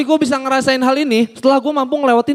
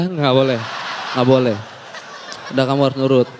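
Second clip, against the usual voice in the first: stern mom; 8 semitones lower, 3 dB quieter than usual. Retold or imitated. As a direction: lower firm refusal. Mother refusing firmly. (ibu menolak dengan tegas)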